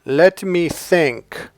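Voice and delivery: slow, drawn-out mock thinking; mock pondering. Dating coach mocking a man who overthinks, slow and pondering. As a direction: mimic a guy stalling to think.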